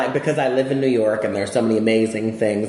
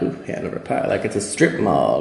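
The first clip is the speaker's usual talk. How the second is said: mildly snooty, dismissive mimicry; mock-snotty put-down; snotty attitude. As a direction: lightly imitate someone looking down on the place. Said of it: "have a snotty attitude".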